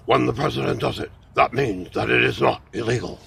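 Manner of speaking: lightly voiced Nixon; a hint of Richard Nixon; Nixon impression. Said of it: "my impression of former President Richard Milhous Nixon".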